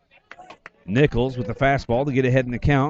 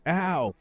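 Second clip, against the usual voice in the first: imitated cry of pain, higher and soft; mock ow; 6 semitones higher, 3 dB quieter than usual. Announcer shows how the batter should sell it, mock ow. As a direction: feign being hit with an "ow". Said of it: "He'd have put his hand up".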